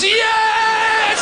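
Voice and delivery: a short cheer shouted from the crowd; mock cheer. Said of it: "somebody goes".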